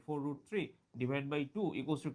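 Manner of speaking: very slow, each word drawn out; slow dictation. Shown as a demonstration. Teacher reading the step slowly to the class. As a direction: spell it out slowly for the students.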